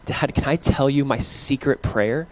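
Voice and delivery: secret whisper. Retold or imitated. Son pulling dad aside to share a secret, soft and slow. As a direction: hush it like a child sharing a secret. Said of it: "pulled me aside and he said".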